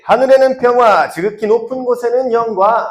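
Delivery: high, measured call to repeat; lead-in for repeating. Shown as a demonstration. Teacher has the group repeat the verse, high measured lead-in. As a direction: lead the recitation in a high, projected voice. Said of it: "선생님 따라 해볼게요".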